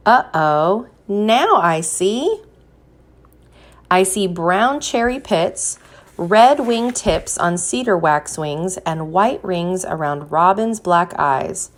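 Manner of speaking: gentle storybook reading with a drawn-out refrain; picture-book read-aloud voice; reading to children. Acted. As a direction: read it to a class of little ones.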